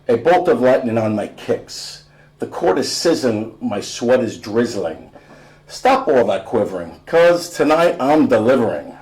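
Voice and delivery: bouncy spoken-word flow; rhythmic poem reading. Acted. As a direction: ride the beat of the rhyme. Reads rap blurb rhythmically.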